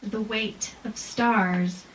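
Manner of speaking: very slow, solemn haiku reading; poem reading. Shown as a demonstration. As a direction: read it slowly with long pauses. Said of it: "Deep winter (repeat)".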